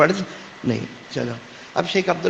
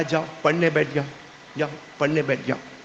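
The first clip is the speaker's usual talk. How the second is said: irritated mother; 3 semitones lower, 6 dB quieter, faster than usual. Retold or imitated. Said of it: "ماں کا دماغ تھوڑا گرم ہوگا".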